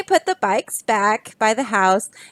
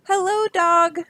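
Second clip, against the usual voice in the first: Duck voice; 7 semitones higher than usual. Acted. Duck greets Dog.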